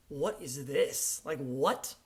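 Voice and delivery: slow, drawn-out disbelief; retold astonishment. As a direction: re-enact being stunned, stretching the words. Retells amazed first listen.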